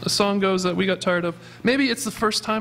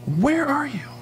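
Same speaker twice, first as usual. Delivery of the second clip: higher, searching call; 7 semitones higher than usual. Pretend. God calling out to the hiding sinner, higher searching call.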